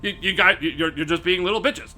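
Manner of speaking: hesitant, stumbling, mild-mannered scolding; mock whitest-guy voice. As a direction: imitate a reserved man trying to go hard. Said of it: "the whitest way you can explain it".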